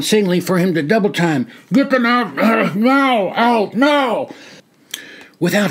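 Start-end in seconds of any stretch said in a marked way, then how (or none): 1.7-4.3 urgent order. Acted. Soldier pressing the colonel to leave, yelling. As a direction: hurry them off now.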